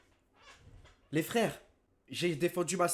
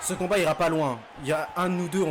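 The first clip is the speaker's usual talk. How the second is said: shouting. Real, not acted. Tense fight, shouting at screen.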